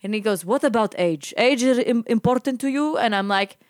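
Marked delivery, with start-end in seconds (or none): 0.5-3.0 lightly voiced probing old driver, higher; creepy old man. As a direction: imitate a nosy old man's questioning. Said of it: "to this creepy old man".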